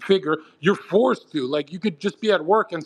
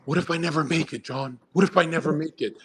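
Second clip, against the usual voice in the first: lightly voiced anxious message in a lower pitch; imitating worried messager; 4 semitones lower than usual. Follower messages John in doubt, imitated worry. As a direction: read out a fretful fan's plea, subdued. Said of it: "this is the D M I get".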